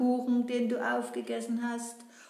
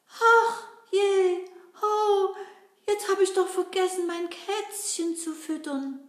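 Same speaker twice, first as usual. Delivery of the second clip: put-on higher, sweet girl puppet voice; Gretel voice; 5 semitones higher than usual. Gretel greeting the children in a high girl voice. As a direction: play a cheerful young girl.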